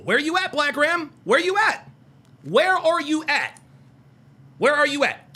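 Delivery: loud, drawn-out call to a chatter. Real, not acted. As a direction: yell for Black Ram to answer. Calling out to chatter Black Ram.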